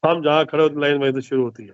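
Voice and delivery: lightly attempted film star impression; Amitabh Bachchan. Shown as a demonstration. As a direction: let the line sink low to its end. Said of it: "मैं स्वयं भी अमिताभ बच्चन साहब की तरह ही बोलने की कोशिश कर रहा हूँ".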